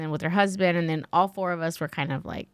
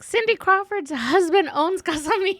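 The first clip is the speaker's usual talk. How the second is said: high-pitched, incredulous reveal; shocked revelation; 12 semitones higher than usual. Retold or imitated. Guest voices best friend revealing the husband's company, high disbelief. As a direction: deliver the punchline way up high, aghast.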